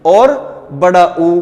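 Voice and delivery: बड़ा ऊ held very long and slow, lips rounded; long vowel demo. Shown as a demonstration. Teacher showing students the long ऊ, drawn out slowly. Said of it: "तो आप कहोगे sir ऊ".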